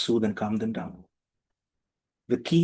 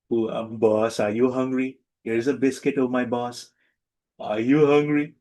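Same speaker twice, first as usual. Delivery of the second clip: put-on baby talk to the boss. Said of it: "Not that".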